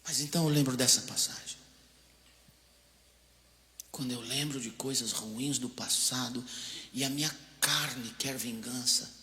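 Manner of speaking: ordinary talk, nothing marked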